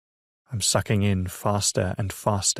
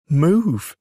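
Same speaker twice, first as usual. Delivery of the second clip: straining cry; 7 semitones higher, 6 dB louder than usual. Acted. Child straining to move.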